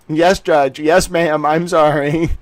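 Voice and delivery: meek mock apology, lightly voiced; scolded little dog. Lawyer apologizing to judge, meekly. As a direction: sound like a chastened puppy. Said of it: "Scolded little dog".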